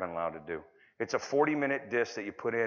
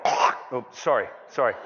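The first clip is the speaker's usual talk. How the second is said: mock flustered apology; 7 dB louder than usual. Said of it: "I go".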